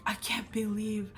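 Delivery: imitating grandma's relieved whisper; stunned whisper. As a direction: whisper it in shock. Grandma stunned, finding shawl.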